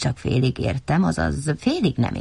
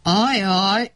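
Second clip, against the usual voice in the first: groaning ajaj; 4 semitones higher than usual. A narrator's reading. Bear groaning when he sees the problem. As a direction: let out a worried groan. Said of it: "nyögött fel Medve Medárd".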